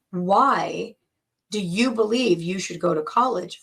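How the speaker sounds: pushy, pressing demand on Why; forceful question. Shown as a demonstration. Coach shows the dad grilling his son, forceful question. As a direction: fire the question at the kid like an attack. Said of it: "so forceful".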